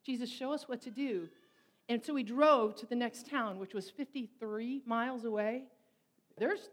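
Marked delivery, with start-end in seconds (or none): 0.0-1.3 prayer. Real, not acted. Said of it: "we just started to pray".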